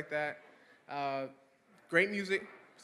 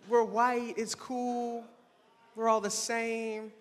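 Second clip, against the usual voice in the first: mock friendly white guy; 4 semitones higher, much slower than usual. Friends' meaning, slow and higher.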